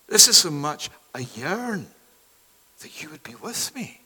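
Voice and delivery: hushed, breathy whisper of love; God's tender whisper. Acted.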